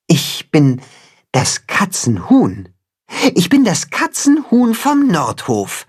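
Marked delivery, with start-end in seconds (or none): 3.3-5.8 proudly, high and ringing, stress on bin. Acted. Timme tells the cat who he is, proudly. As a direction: announce it with puffed-up pride. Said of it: "sagt Timme stolz".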